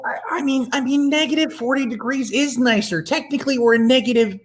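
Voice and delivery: flirty voice. Acted. Flirty improv husband voice.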